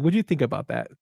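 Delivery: normal talking voice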